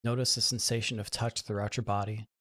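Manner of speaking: soft, unhurried meditation guidance with long pauses; guided meditation. Real, not acted. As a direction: guide them gently into relaxation, leaving room to breathe.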